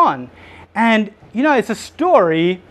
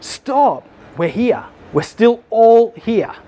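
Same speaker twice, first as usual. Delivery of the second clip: urgent shout; 5 semitones higher, much slower than usual. Retold or imitated. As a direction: call out urgently to stop him. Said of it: "he yells out".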